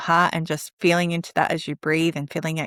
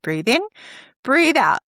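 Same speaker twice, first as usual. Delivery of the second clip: breathing mantra; 5 semitones higher than usual. Shown as a demonstration. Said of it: "a little mantra in your head".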